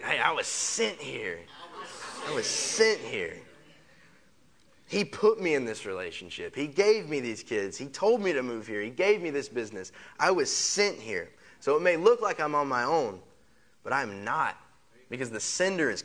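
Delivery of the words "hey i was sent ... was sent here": with some attitude. Shown as a demonstration. Preacher coaching the congregation to declare it with attitude. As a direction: say it like you mean it, chin up. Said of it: "Say it with some attitude".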